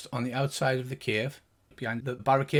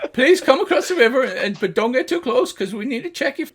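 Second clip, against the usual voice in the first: high, much louder gnome voice; gnome guard; 9 semitones higher, 7 dB louder than usual. Acted. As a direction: wave them across, cautious. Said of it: "He says".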